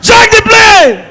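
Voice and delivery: high, loud and slow, stretching every word; slow shouted plea. Retold or imitated. Passenger begging God to lift the plane, slow loud shout. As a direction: drag it out like a desperate order to God. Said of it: "If you hear prayer".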